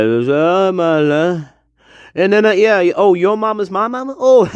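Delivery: high, fast hillbilly voice; mocking a backwoods voice. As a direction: ham up a hick.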